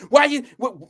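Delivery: high, mock-wounded protest; acting all innocent. Instigator protesting once the fight starts, high and falsely innocent. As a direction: imitate a troublemaker playing innocent. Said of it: "try to act all innocent".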